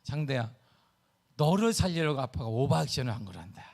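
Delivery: low, lightly acted uncle's reassurance; fatherly explaining. Retelling what he told his nephew, low and fatherly. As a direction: explain it gently to a child. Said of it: "내가 얘한테 그랬어요".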